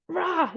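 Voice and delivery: exasperated noise acting out yucky feelings; frustrated "rah". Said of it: "just all these yucky feelings".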